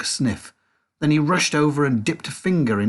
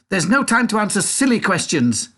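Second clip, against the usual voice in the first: high, louder brisk dismissal; impatient Wonka; 9 semitones higher, 4 dB louder than usual. A narrator's reading. Wonka dismisses Mike, high and impatient. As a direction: wave the question away.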